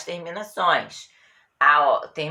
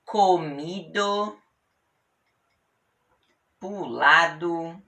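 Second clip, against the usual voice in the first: slow examples; slower than usual. Shown as a demonstration. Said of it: "E o particípio é ado".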